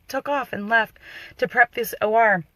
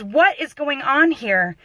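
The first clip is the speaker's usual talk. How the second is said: slow, higher-pitched demanding question; slow, emphatic challenge; retold demand; 4 semitones higher, 3 dB louder, slower than usual. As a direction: imitate a doctor demanding answers. Doctor demanding an explanation.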